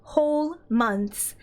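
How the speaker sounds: high, bubbly thanks; excited gushing. Real, not acted. Thanking Izzy for subbing, high excited gush. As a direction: gush over a dear friend.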